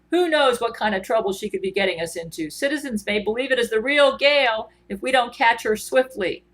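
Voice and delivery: put-on lightly done Scottish accent, urgent; Scottish brogue. Gerard Butler warning about the Gale dummy in a light Scottish accent. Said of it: "always speaks with a Scottish brogue".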